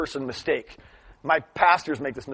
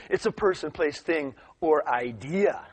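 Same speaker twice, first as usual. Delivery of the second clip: retold smug student, slowing toward the end; smug, confident; slower than usual. Another kid answering after raising his hand, smug. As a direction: lay out the answer with smug care. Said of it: "all smug and confident".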